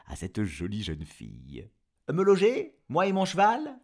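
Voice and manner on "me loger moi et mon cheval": proud demand. Acted. Jean-Jean à la jeune fille.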